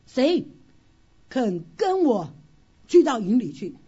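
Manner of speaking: slow, loud rallying call; bold call. Acted. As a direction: challenge the troops to follow, slow and loud. Quoting David's bold call.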